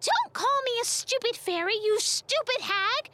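high, loud, indignant fairy yell; yelling back. A narrator's reading. Insulted fairy answering the old woman, yelling back. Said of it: "Tatl yelled back".

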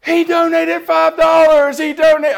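hammed-up shout of delight; excited announcement. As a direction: announce it like big news to the manager. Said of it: "She's like".

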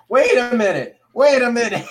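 loud, high-pitched shout; shouted outburst. Real, not acted. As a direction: yell it in sudden disbelief. Sudden outburst at friend's photo.

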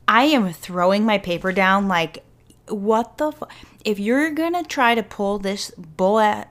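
slow, exasperated rant; worked up. Real, not acted. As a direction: spell it out in disbelief, slowly. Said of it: "I'm getting so worked up".

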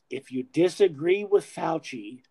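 lightly voiced public health official; a slight, measured impersonation, statement in two parts; hint of an impression, evenly delivered; Fauci. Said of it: "That's my best for Fauci impersonation".

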